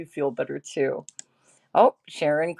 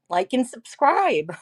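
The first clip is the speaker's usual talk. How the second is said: slow, higher sing-song imitation of the clip voice; mimicking the clip; 6 semitones higher than usual. Streamer imitates a fan's clip telling viewers, slow sing-song. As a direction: echo the clip's drawn-out plea lightly. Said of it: "She's telling you people".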